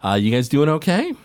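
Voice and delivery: a hint of a cheerful little halfling trader; friendly halfling. GM voices Roscoe the halfling.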